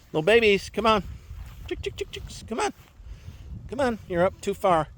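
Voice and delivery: high coaxing call to chicks; calling chickens. Real, not acted. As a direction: coax the chicks home.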